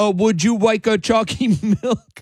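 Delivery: put-on high-pitched babyish baby-talk voice. A radio host, reacting to callers, slips into a baby-talk voice. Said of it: "you guys are triggering me to baby talk".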